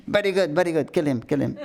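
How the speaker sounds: high, gleeful laughing cheer. Retold or imitated. The yellow deity laughs and urges the beating, laughing. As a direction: egg him on through laughter. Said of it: "she was laughing".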